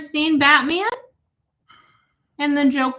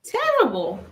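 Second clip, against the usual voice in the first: put-on accent; 2 semitones higher than usual. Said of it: "enough of the accents".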